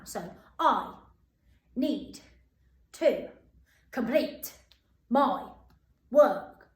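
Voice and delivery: each word punched with a pause. Shown as a demonstration. Teacher drilling the sentence word by word with pupils. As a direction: tap out every word separately. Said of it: "you can do it a bit faster now".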